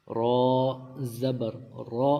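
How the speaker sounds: رو as a heavy, rounded "raw"; thick ra. Shown as a demonstration. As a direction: make the r of رو full and dark before zabar. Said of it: "رو کے اوپر زبر ہو تو ہم اس کو موٹا".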